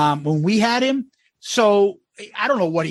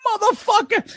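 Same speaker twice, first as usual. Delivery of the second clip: mock curse; 14 semitones higher than usual. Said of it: "And he's like".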